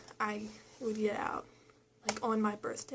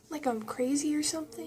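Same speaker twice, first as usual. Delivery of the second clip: higher, rising challenge; retold incredulity; 4 semitones higher than usual. Daughter challenging dad about hospital, retold incredulity. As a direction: question it as if it's absurd.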